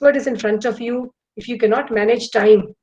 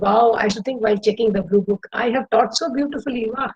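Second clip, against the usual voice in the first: delighted teacher. Retold or imitated.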